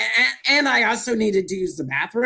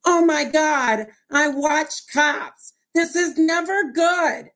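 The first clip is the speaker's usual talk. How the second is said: higher, slow panicked inner voice; 7 semitones higher, slower than usual. Retold or imitated. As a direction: drag it out as if thinking the worst. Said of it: "in my head, I'm like".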